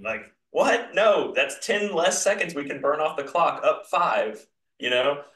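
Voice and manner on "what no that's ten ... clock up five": mock yell of protest, pitch jumping up on the first word; retold yelling. Paranoid fan protesting a shot clock error, mock yelling. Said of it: "I'm over here yelling".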